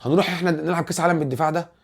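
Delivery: mock indignant fan; fan's complaint. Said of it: "فتلاقي الناس تقول لك إيه؟".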